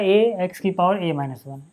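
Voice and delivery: slow, spelled-out dictation pace; slow board dictation. Shown as a demonstration. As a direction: read the term slowly as you write it. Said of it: "teacher dictating slowly".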